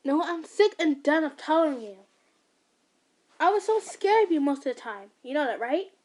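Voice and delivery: loud, high angry outburst; snapping. Acted. Son snapping at his controlling mother. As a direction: let the years of anger burst out. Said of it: "Nagisa finally snapped".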